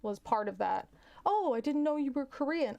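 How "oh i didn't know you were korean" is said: higher-pitched mock surprise; surprised listener. Someone reacting to the grandmother story, mock surprised. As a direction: imitate someone taken aback. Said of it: "so I'll say how".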